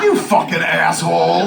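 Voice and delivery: mock-outraged, a little loud; exasperated. Man rebukes friend over false alarm, exasperated.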